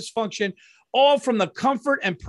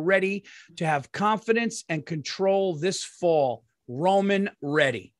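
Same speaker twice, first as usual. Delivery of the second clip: slow tagline read; 3 semitones lower than usual. Acted. Host closing the ad with the tagline, slow and low. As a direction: drop it low and slow like a slogan. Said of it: "ad tagline".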